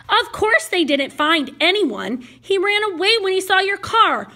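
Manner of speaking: slow, insistent questioning, rising in pitch; upset challenge. Acted. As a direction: press him, drawing out the question. Upset patient challenges her rescuer.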